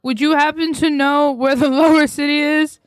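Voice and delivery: mock-polite asking. Mock-polite question to guard.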